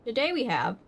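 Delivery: crunching candy while talking; talking through a crunchy mouthful; mouth full of M&Ms. Real, not acted. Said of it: "sorry, I'm crunching".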